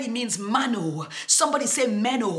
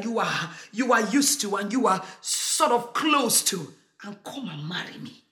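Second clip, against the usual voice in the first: tender plea. Acted. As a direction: coax them close, almost whispering. Jesus voiced as tender groom.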